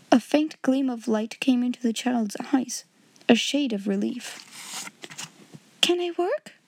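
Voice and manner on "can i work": high, eager question; pitched-up hopeful little voice; hopeful girl. A narrator's reading. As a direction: ask as a child suddenly relieved. Girl relieved, asks to work.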